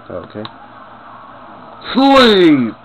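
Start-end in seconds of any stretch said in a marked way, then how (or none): 1.9-2.8 yelled sleep command; shouted command. Pretend. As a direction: bark the order to sleep.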